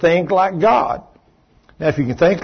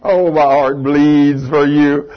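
sarcasm; 4 dB louder, much slower than usual. Real, not acted. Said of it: "sarcastic reply".

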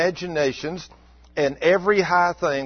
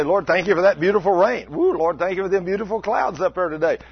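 praising God; 3 semitones higher, 3 dB louder than usual. Acted. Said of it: "praising God for everything".

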